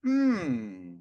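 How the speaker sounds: long "hmm" gliding down; light curious hum. Shown as a demonstration. Man telling listeners to lighten up, light curious hum. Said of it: "just lighten up and just".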